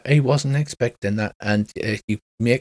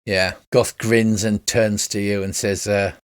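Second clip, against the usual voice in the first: ordinary delivery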